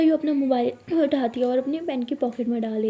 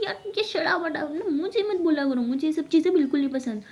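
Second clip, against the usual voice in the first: whiny plea; 4 semitones higher than usual. Acted. Abira whining at sister.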